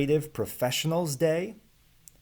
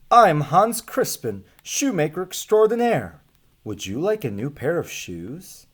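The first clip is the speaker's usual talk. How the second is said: louder, higher, proud salesman announcing himself; proud shoemaker; 5 semitones higher, 5 dB louder than usual. Acted. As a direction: boom out your name like a travelling showman. Shoemaker introduces himself in story.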